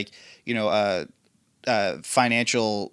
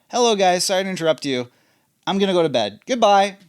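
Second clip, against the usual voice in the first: lightly raised squeaky imitation; chirpy girl voice, a bit higher; helium voice; 5 semitones higher, 4 dB louder, faster than usual. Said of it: "With, like, a helium voice".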